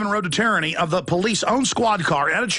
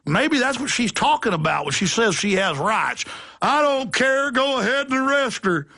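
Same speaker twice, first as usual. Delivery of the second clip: dismissive supervisor; 4 semitones higher than usual. Retold or imitated. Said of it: "He goes".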